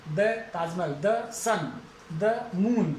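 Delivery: the Taj Mahal, the sun, the moon with the said short duh. Shown as a demonstration. Teacher contrasting the before consonants: short duh. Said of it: "व्यंजन से पहले".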